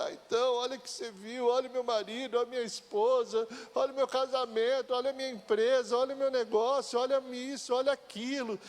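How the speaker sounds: a hammed-up whiny list of woes; whining complaint. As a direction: play the self-pitying whiner, half mocking. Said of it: "cho-, choramingando".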